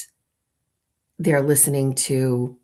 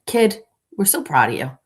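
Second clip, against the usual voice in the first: higher, louder gushing stepdad praise; a higher, louder hammed-up proud dad; gushing stepfather; 6 semitones higher, 4 dB louder than usual. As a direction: overdo the proud stepfather cheer. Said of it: "he is like".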